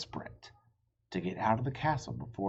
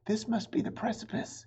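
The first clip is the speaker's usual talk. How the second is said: calling out; 13 semitones higher than usual. Acted. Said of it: "he called to Annie".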